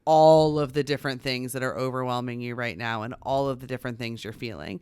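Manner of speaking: softening into calm, patient reassurance; understanding parent. Pretend. Mom imagining comforting her overwhelmed son, gently reassuring. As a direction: gently talk a child through it. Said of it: "Or I could have said".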